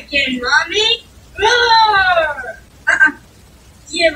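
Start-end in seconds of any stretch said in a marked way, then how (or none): 1.4-2.6 dinosaur roar. Pretend. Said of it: "I'm a dinosaur".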